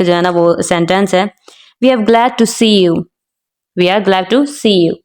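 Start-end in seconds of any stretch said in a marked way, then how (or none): 1.8-3.0 see stressed near the sentence end. Shown as a demonstration. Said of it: "सी के ऊपर जो है ना वो स्ट्रेस्ड आ रहा है". 3.8-4.9 slow model reading with see set apart and stressed. Shown as a demonstration. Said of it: "सी के ऊपर जो है ना वो स्ट्रेस्ड आ रहा है".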